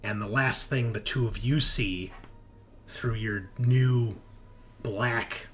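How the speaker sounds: game master narration. Acted. Game master describing the players' mutation and capture, dramatic narration. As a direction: set the scene deliberately, phrase by phrase.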